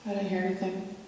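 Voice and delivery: hushed, cautious whisper; nervous night vlog whisper. Real, not acted. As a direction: keep it low so nothing hears. Hushed reply in haunted basement.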